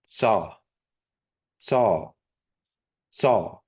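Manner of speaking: Saw said as tsaw with a t before the s; Kiowa TS. Shown as a demonstration. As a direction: start Saw with a ts. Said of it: "Then you have a T S".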